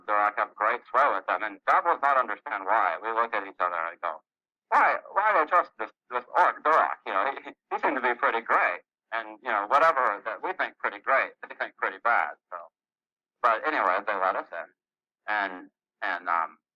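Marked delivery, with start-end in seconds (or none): 4.7-12.4 puzzled goblin. Acted. Goblins puzzle over Durak's sway.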